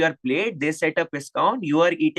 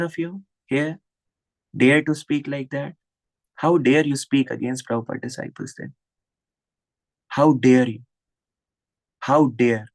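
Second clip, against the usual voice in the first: indignant scolding. Real, not acted. Preacher rebukes critics of senior disciples, indignant scolding. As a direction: scold them, pausing heavily before each repeat.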